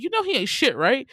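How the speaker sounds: loud, high, sassy challenge; dogging the boyfriend. Retold or imitated. Second girl runs down her boyfriend to her friend, scornful. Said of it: "she kept dogging her boyfriend".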